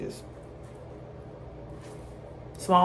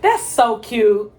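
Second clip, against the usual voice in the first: lower, slow, drawn-out gushing; 4 semitones lower, 6 dB louder, much slower than usual. Real, not acted. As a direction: stretch it out low and fond. Gushing over a moment.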